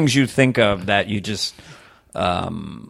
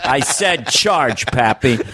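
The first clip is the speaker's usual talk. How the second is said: slow, flat-out commanding drawl; John Wayne. Retold or imitated. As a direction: refuse to hear it, slowly. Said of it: "John Wayne".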